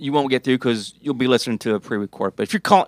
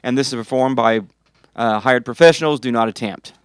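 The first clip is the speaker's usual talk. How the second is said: toy commercial. Pretend. Rattles off mock disclaimers.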